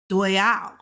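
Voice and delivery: "duo yao" with the sh of shao dropped; fast-speech Mandarin "duo yao", gliding straight from duo into ao; skipped syllable. Shown as a demonstration. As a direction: blend "duo yao", no sh sound. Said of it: "They don't even say the shao part".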